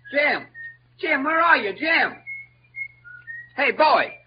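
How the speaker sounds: high, loud, worried calling. Acted. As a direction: holler for a lost friend. Searching for Jim by river.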